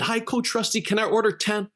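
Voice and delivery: very high, excited fan voice; all excited. Retold or imitated. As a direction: imitate an eager lady in a high pitch. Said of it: "she's all excited".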